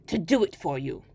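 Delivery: low crafty little goblin; sly hobgoblin. Acted. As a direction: bargain like a sly imp. Hobgoblin bargains.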